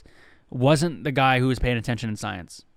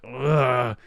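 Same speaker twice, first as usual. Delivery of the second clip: frustrated ugh. Retold or imitated. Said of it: "and he's just like".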